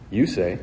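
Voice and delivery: "You" carries the emphasis, "say" drops off; stress on YOU. Shown as a demonstration. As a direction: land firmly on "You", let "say" fall. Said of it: "the emphasis is on you".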